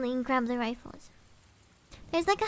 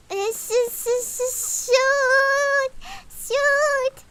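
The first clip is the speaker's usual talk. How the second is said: high, loud cries of shoot; building from a stammer to a loud, high shout; frustrated outburst; 9 semitones higher, 7 dB louder, much slower than usual. Real, not acted. Storyteller breaks off, shouting in frustration, loud and high.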